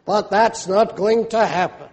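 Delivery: lightly mocking disbelief; understated pulpit mockery with a small laugh. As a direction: scoff mildly at the prophecy. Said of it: "mockingly saying".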